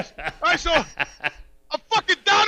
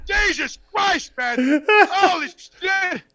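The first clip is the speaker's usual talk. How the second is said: stunned disbelief; 2 semitones higher, much slower than usual. Retold or imitated. Lee ate the whole steak.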